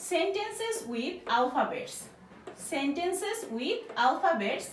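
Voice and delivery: very slow, each word spaced out; slow, clear classroom reading; slow dictation. Shown as a demonstration. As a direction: read it out slowly for learners. Teacher reads topic slowly.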